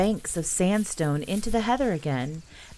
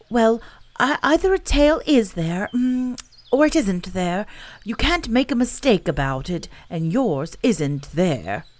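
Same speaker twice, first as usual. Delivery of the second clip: higher, louder explaining bear voice; a little bear reasoning it out; earnest bear; 4 semitones higher, 4 dB louder than usual. Acted. Pooh explains.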